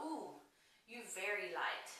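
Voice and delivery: soft, quiet imitation of a saleslady's Asian accent; mock Asian accent. Saleslady color matching her pale skin, mock Asian accent. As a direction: lightly put on a playful Asian accent. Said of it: "I just made a weird Asian accent".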